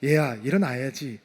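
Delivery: put-on soft, low call to a sleeping child; hushed, loving wake-up; tender call. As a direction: gently coax the child to get up. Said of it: "죽어있는 아이를 향해서".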